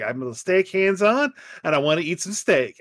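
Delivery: lightly hammed Southern twang; a daughter's put-on Southern accent, imitated; touch of romanticized Southern. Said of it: "romanticized Southern accent, like a singer".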